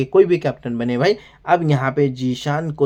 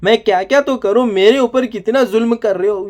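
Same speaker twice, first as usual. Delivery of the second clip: mock tearful complaint; 4 semitones higher than usual. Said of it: "यहाँ पे नेहल रोती है भाई".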